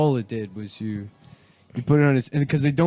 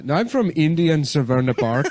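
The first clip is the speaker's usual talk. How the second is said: put-on Indian accent; 3 semitones higher, 4 dB louder than usual. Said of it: "saying Maryland stereotypes in an Indian voice".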